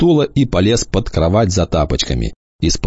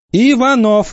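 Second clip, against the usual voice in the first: higher, louder second call; 4 dB louder, slower than usual. Acted. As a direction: call him again, sharper and louder. Teacher calls louder. (громче и выше, настойчиво)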